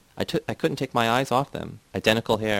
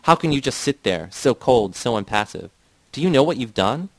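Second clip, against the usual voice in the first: raised, louder tearful outburst; a hint of a hysterical shout, higher and louder; narrated wife breaking down, half shouting through tears; shouting through sobs; 3 semitones higher, 5 dB louder than usual. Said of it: "shouting through sobs".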